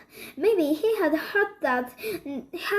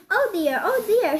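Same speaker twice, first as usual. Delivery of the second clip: sobbing; 5 semitones higher than usual. A narrator's reading. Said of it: "she sobbed".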